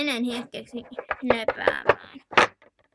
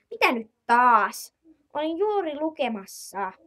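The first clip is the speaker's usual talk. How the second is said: annoyed snap; 3 semitones higher, slower than usual. Acted. Annoyed aunt interrupted reading.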